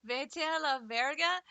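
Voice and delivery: slow then shouting the last insult; mock tough-guy put-down; angry insult. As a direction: snap the Spanish insult with rising anger. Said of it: "if you talked to me like that".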